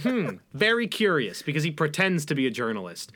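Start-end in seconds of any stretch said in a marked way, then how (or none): 0.0-1.4 mock pundit curiosity. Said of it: "he's like".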